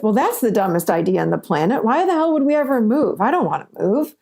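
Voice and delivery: scoffing, brushing the idea off; dismissive reaction. Retold or imitated. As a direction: shoot down the partner's idea. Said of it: "you don't want to respond with".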